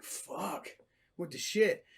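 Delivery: softly whispered shock. Retold or imitated. Spotting a possum by the kitten, a soft shocked whisper. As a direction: breathe it out in disbelief.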